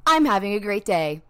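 loud, sassy insistence; annoying cheery. Pretend. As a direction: say it right back at the bad day, stubbornly. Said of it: "being just as annoying back".

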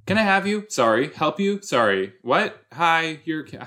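high, jumpy back-and-forth; mock flustered flirting.

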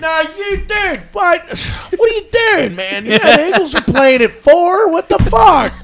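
put-on high, loud Delco-accent complaint; hammed-up Delco accent. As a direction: shout it indignantly in a Delco accent. Acted bit, figure on cross.

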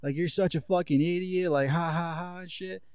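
spoken ha-ha, mildly mimicking his amusement; mock laughing. Friend gloating over his prank, imitated mock laughing. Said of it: "he's, like, laughing".

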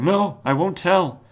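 high, slow put-on refusal; a squeaky stubborn no, drawn out; defiant butler voice. Butler refusing the Spectre, high put-on voice. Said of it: "the butler's like".

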